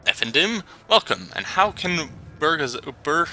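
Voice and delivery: Turkish vendor. Acted. Voices Turkish street vendor.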